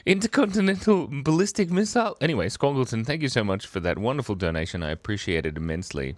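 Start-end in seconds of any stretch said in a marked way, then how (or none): 0.1-2.2 proclaiming the name. Pretend.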